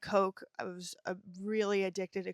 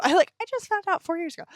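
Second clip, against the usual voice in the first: high, fast, louder self-parody with a laugh; self-mocking laugh; 9 semitones higher, 9 dB louder, much faster than usual. Storyteller correcting her own timeline to viewers, laughing self-mockery. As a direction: laughingly mimic your own silly slip.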